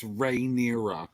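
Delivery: "Rhaenyra" said as ray-NEER-uh; suggested pronunciation. Shown as a demonstration. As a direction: give "Rhaenyra" a RAY opening, then NEER-uh. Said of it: "I think it's".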